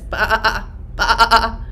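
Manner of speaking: mock bleating sheep. Shown as a demonstration. Teacher bleating like the black sheep. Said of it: "It says".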